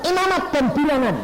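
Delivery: high, loud disbelieving "Imamat dan Bilangan?"; preacher echoing God's reading order in disbelief; surprised echo. Retold or imitated.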